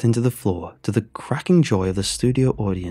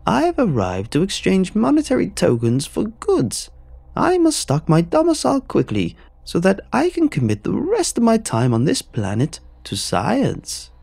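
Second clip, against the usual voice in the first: high, slow booming egg monster voice; booming Egghead; 11 semitones higher, 4 dB louder than usual. Acted. A monstrous egg host booming his name at the screen. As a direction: boom it out like a deranged game show villain. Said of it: "boomed the television".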